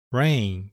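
put-on "rain" said slowly and clearly as ren, model for children; teacher modelling "rain"; English word demo. Shown as a demonstration. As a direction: say "rain" cleanly for kids to copy. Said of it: "雨のことを英語でrain、アールエーアイエヌ、".

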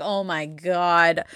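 slow, drawn-out mock astonishment; acted disbelief. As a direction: stretch it out in retold disbelief. Acts out learning what she missed.

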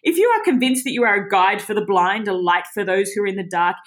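mock-superior, sneering read of the verse; sarcastic reading. Bible teacher reading Paul's words to her group, sarcastically. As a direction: read it as if mocking the arrogant. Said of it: "I tried to read it quite sarcastically".

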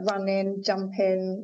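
RUNNING and JUMPING ending in "in"; dropped G. Retold or imitated. Quoting a commentator's words on Olympics coverage, dropped G. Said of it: "dropping G".

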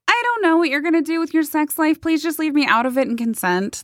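high-pitched pretend disclaimer, easing down; mock exasperation. Would-be cult leader refusing involvement, mock exasperated voice.

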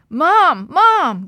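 high, loud calls for mother; urgent excited shout. A narrator's reading. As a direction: call Mom from across the house. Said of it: "Gladys shouted".

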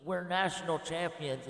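half-hearted re-enactment of a victory scream; retold scream. Child greeting dad at the garage door, mildly imitated scream. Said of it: "and I screamed".

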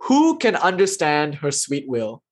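slow, gentle, smiling answer; a sage gently smiling at an angry seeker; smiling reply. Retold or imitated. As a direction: answer the seeker kindly with a smile. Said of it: "He smiles and he says".

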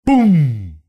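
high, loud exploding Boom. Acted. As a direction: belt it out like an explosion. Sound of chimney blast.

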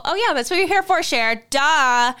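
mock her own nerves like a know-it-all friend; sassy mock voice.

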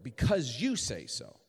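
"you" stressed in a slow, deliberate phrase. Shown as a demonstration. Weary believer answering God after failed tries, stress on "you". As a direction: put the weight on "you". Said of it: "Emphasis on you".

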